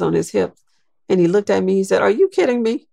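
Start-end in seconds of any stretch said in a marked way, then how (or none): 2.0-2.9 retelling his words with a laugh breaking through; light, amused, half-laughing; laughing disbelief. Retold or imitated. Imitating the president laughing at her formal handshake. Obama's delighted reaction, retold.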